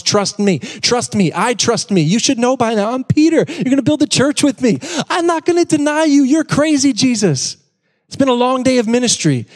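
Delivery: high, cocky Peter brushing off Jesus. Pretend. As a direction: play Peter as a boastful, high-pitched know-it-all. Preacher plays cocky Peter.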